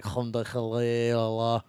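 slow mock chanted prayer; imitating an Arabic prayer chant, slowly. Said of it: "Literally sounds like".

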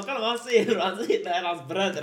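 retold line through laughter; laughing disbelief. Mocking the brothers claim to his friends, laughing. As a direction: point out the absurdity while cracking up. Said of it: "jag kan inte sluta skratta".

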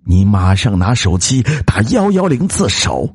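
stern, high-pitched order; cold command. Acted. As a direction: order him coldly, allowing no argument. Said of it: "女子冷冷地说道". (冷厉地命令)

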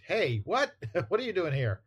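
high-pitched mock surprise with a chuckle; acted startled challenge. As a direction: challenge an unexpected visitor, half laughing. Comic character's startled challenge acted out.

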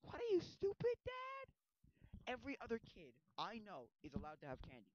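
a squeaky, whiny comeback; mock the father as a hypocrite; bratty kid. Young Wonka talks back to his dentist dad, whiny.

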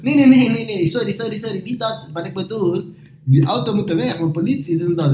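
high, hurried apologetic broken Dutch. Retold or imitated. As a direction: backpedal fast in the delivery guy's broken Dutch. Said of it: "de meest gebroken taal". (hoog, haastig verontschuldigend gebroken Nederlands)

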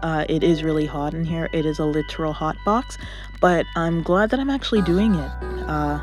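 closet-muffled voice; dampened sound, little reverb. Real, not acted. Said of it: "I'm currently recording in my closet".

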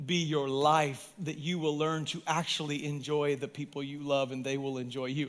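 quiet intimate. Real, not acted. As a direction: draw them in softly. Sudden intimate drop to quiet.

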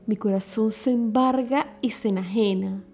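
hammy stage actor reciting verse; declaimed poem. Shown as a demonstration. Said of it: "declamaré para ustedes su popular poema".

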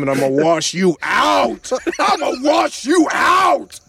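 high-pitched, drawn-out comic yell; hammed-up cry, stretched longer as it builds; mock triumphant shout. Acting out singer explaining his lyric.

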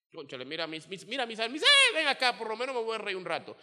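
eager call, jumping high on the middle; calling a friend over. Retold or imitated. Someone needing cheer calls the charismatic friend, eagerly. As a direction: call out to the happy one to come over.

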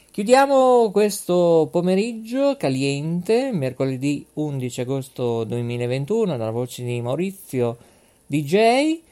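energetic DJ announcer voice; radio DJ sign-off. Acted. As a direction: close the show like a DJ. DJ signing off show. (voce da DJ radiofonico)

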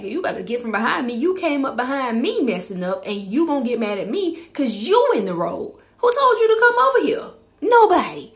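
loud, high mock yell at a driver; sassy shouted comeback at other drivers; mock road-rage yell. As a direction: yell back at the driver behind.

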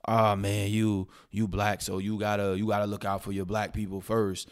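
imitating a pushy voice. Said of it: "people out there that be like".

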